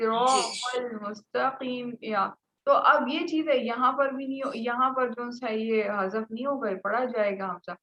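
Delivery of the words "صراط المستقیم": slow, drawn-out tajweed recitation; teacher recites the verse slowly for students; Quranic recitation. Shown as a demonstration. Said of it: "یہ والا".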